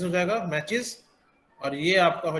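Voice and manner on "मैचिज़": मैचेस said with a final "iz"; "iz" ending. Shown as a demonstration. Teacher repeating the plural for learners, "iz" ending. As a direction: end मैचेस on "iz", as a model word. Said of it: "ईज की तरह हम जो है".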